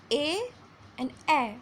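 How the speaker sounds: "A" long as "ei", then "a" short as in "apple". Shown as a demonstration. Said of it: "In the long sound it was like".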